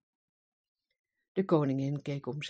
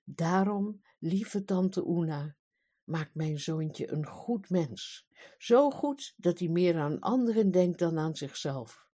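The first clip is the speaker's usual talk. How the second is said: a mother speaking from the heart; queen moved and tender for her son. Acted. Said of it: "met ontroerde stem".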